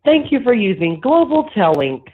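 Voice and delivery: tinny prison phone line audio; payphone call. Real, not acted. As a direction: sounds like a call over a jail phone. Recorded prison phone call played.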